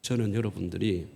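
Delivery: ordinary talk, nothing marked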